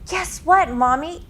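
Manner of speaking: put-on high excited child; bouncy five-year-old; little boy voice. A narrator's reading. Five-year-old wakes mother.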